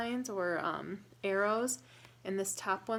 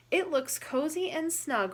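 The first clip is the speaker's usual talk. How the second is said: higher, louder eager rabbit; higher-pitched excited Rabbit; 8 semitones higher, 5 dB louder than usual. Acted. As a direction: bounce it like a keen little rabbit. Rabbit voiced in read-aloud.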